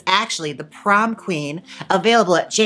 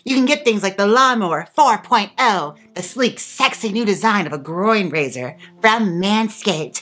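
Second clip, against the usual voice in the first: playful, over-enthusiastic sponsor plug; sponsor ad read; 4 semitones higher than usual. Acted. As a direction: sell it like a TV ad host, punching the brand.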